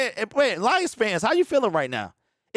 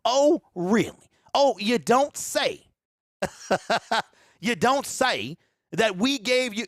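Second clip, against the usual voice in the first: sarcastic; 3 semitones higher, slower than usual. Real, not acted. Mocking the rival quarterback's quote.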